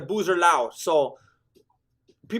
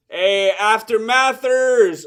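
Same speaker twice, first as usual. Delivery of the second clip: mock corner shout; 6 dB louder, much slower than usual. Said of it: "calling out to fighter".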